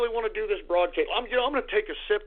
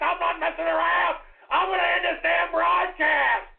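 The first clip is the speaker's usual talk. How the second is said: angry threat; 5 semitones higher than usual. Acted. Threatens to end broadcast.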